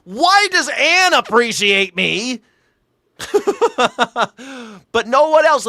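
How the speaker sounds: high, slow, hammed-up whimper; an over-the-top pitiful lament; mock plaintive. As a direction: wail it like a wounded soul. Mock self-pity about praise.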